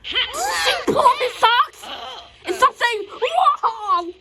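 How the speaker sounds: laughing scold. Real, not acted. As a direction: giggle while telling them off. Child scolding toys, laughing.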